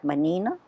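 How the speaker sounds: manina with its final A clearly sounded; Azorean pronunciation. Shown as a demonstration. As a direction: keep the closing A in manina. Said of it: "But the A's we pronounce".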